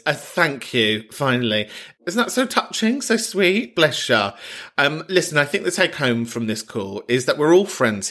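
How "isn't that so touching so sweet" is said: high-pitched cooing; touched, sing-song gush. Real, not acted. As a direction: coo over a sweet message in a lifted voice. Gushing over caller's thank-you message.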